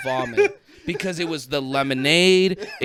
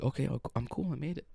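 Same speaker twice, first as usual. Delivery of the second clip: tag; 11 dB quieter, faster than usual. Retold or imitated. Retelling reassuring himself after the ride.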